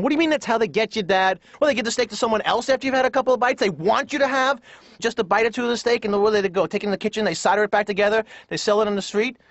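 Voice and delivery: fast, high, exasperated protest; mock screaming at dad. Son to dad in the restaurant, mock exasperated scream. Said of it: "I'd be screaming at my dad".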